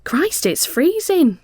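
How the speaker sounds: high, slow, loud complaint; high exclaimed complaint about the cold; announcing. A narrator's reading. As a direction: declare the cold loudly. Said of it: "she announces".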